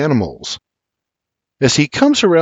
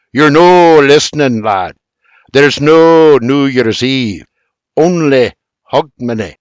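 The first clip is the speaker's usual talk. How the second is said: growling; 2 semitones higher, 5 dB louder than usual. Acted. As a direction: growl it nose to nose. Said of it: "nose to nose and growls".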